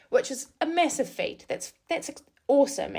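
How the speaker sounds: excited. Real, not acted. Pride in a long run.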